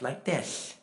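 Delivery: "this" said with a lisped s; lisping imitation. Preacher showing how his friend spoke, lisping. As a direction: mimic a lisp on "this". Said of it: "he had been born with a lisp".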